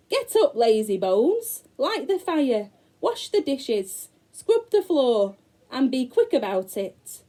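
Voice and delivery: high, loud bossy witch orders; witch shouting. Acted. The witch shouting orders at Gretel, high and loud. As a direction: bark the chores at her like a nasty witch. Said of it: "She shook Gretel and shouted".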